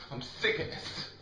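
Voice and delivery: low-energy, weary exasperation; fed up, under the breath. Real, not acted. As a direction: say it drained and half-voiced. Fed-up rant at partner.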